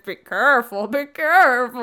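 lightly voiced ghostly whisper of Edward; a hint of a ghostly lover warning her; Ghosty Eddie voice. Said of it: "So that's my Ghosty Eddie voice".

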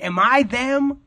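suddenly fear you're one of them; self-doubting alarm. Retold or imitated. Comedian asking himself, high alarmed doubt. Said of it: "And it's like".

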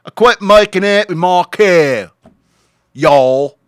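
high, loud, slow Australian redneck drawl; hammed-up Australian redneck yelling at trespassers; Australian redneck accent. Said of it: "Australian redneck sound".

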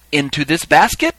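loud question to witnesses; calling out. Acted. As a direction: put it to the crowd, rising at the end. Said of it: "ask the question to the crowd".

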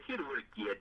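"God" garbled to sound like "git", the whole phrase run together; God mispronounced as git. Shown as a demonstration. Guest repeating his pulpit slip on request, "God" said as "git". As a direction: botch "God" into a short "git". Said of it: "How did it go again?".

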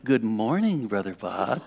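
sly, needling greeting; provocative teasing. Retold or imitated. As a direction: imitate a teasing good morning. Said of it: "a little bit of a provocative sort of thing".

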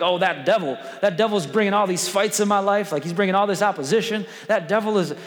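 mock the people who blame the devil; lightly voiced grumbler blaming the devil; mock complainer. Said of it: "Some people are like".

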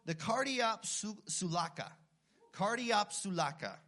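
"cardiopsulaka" said slowly, syllable by syllable; Greek word said slowly. Shown as a demonstration. Preacher teaching the Greek nickname, slow and careful. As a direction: sound out "Cardiopsulaka" for the congregation. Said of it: "They called it the cardio".

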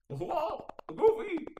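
very high mock whoa; mock surprised. Mimicking game reaction.

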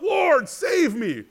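high, slow, drawn-out cry of Lord save me; cry for help. Acted. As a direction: call out as if sinking. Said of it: "Peter cries out".

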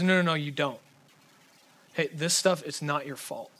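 gentle, low counselor's voice; Robin Williams. Retold or imitated. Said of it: "And he goes".

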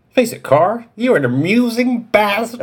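put-on high old man voice; grandpa voice. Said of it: "I'll do my grandpa voice".

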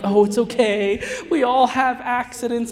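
dad comforting his son after an accident; gentle reassurance. Retold or imitated. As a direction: soothe him gently. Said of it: "so nice and gentle".

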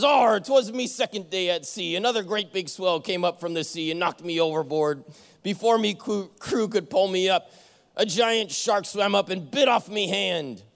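lightly voiced pirate captain; a hint of the hammy sea captain; captain explains the lost hand, lightly in pirate voice. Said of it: "that stupid voice".

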